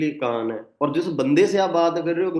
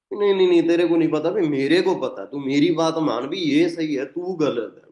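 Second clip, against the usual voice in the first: bossy trainer act; 3 semitones higher than usual. Acted. Trainer telling a friend he is wrong, mock bossy. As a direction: overrule them like a domineering trainer. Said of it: "वो होता है भी एक trainer के type जैसा".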